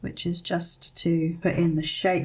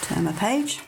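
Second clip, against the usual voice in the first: ordinary delivery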